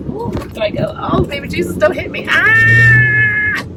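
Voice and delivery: high, panicked pleading into a scream; very high nervous yelp, ending in a shout; panicky squeal. Real, not acted. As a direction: squeal as if about to be hit. Interrupted, pleading not to be hit.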